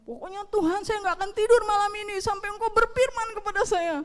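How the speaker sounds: high-pitched re-enacted vow; stubborn insistence. Preacher re-enacting his vow to God not to sleep, stubbornly insistent. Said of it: "ngotot-ngototan".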